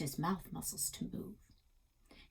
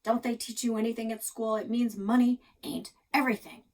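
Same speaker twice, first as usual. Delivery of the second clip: grumpy; 3 semitones higher, 5 dB louder than usual. Acted. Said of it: "Grandpa grumped".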